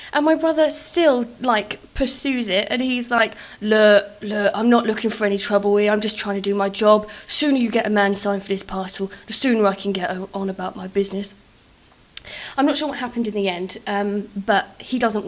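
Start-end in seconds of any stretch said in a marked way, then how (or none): 3.6-11.3 mock reasonable insistence. Brother pursues the prank.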